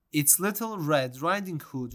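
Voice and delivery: put-on wolf lightly faking a little girl's voice; a hint of squeak, trying to sound small; small squeaky voice. The wolf fools Granny at her door, lightly squeaky. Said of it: "making his usually rough voice sound very small and squeaky".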